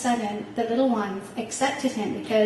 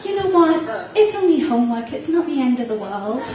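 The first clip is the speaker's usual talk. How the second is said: laughing; 3 semitones higher, 7 dB louder than usual. Retold or imitated. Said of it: "And he goes".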